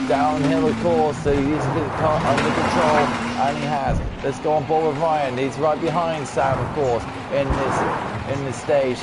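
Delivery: steady play-by-play caller voice; race commentary. Acted. Streamer narrating the rally for his friends, live commentary.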